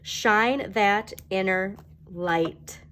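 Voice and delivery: Shine that inner light stretched out slowly, each word given weight; slow, drawn-out shine that inner light. Shown as a demonstration. Slow affirmation spoken to Pisces viewers as a farewell. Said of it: "look at this".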